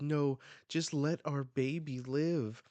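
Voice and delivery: hammed-up parent's plea; desperate plea. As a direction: beg for your child. Voicing parent begging for baby.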